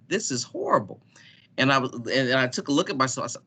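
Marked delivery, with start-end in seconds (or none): 0.1-1.0 a breathy whispered aside to himself, pitched up; whispered dismay. Retold or imitated. Winded on the stairs, whispering dismay to himself. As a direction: whisper it in mock horror at yourself. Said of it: "And I'm like".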